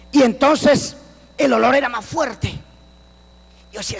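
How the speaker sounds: normal talking voice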